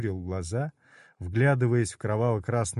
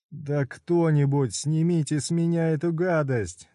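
wailing yell; 5 semitones higher than usual. Acted. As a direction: howl for someone to help. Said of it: "голосил Удо".

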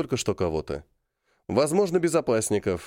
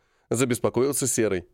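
plain reading voice

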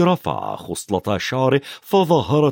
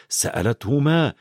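ordinary delivery

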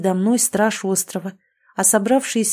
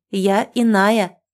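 threatening cry; 4 dB louder, much slower than usual. Acted. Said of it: "я выкрикнула как угрозу".

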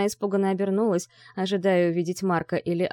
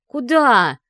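loud, higher snapped question; displeased bark; 5 semitones higher, 9 dB louder than usual. Acted. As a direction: snap it after her angrily. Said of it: "Ви недовольно рявкнула вслед".

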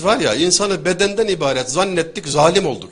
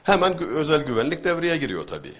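ordinary talk

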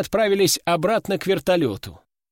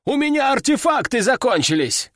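much higher, louder frantic complaint; cursing medic; 9 semitones higher, 3 dB louder than usual. Acted. Medic cursing at the veteran over empty supplies, frantic. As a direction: swear it out in frustration. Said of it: "выругался медик".

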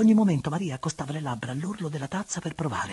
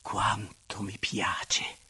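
slow, lower, airy exclamation of pleasure; drawn-out, breathy swoon; long-breathed delight; 5 semitones lower, much slower than usual. Acted. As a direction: sigh it out slowly, savouring every word. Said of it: "mettendo un lungo respiro".

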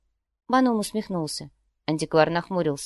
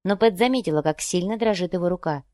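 ordinary delivery

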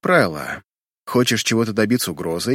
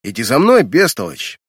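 stern bark; 4 dB louder than usual. Acted. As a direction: snap the order out loudly. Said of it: "грозно рявкаю на Арету".

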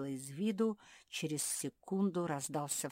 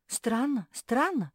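растерянно повторяет; 8 semitones higher, 10 dB louder, slower than usual. Acted. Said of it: "повторяла Жози".

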